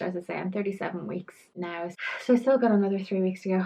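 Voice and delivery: short of breath while talking. Real, not acted. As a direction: talk while winded. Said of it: "I'm so out of breath".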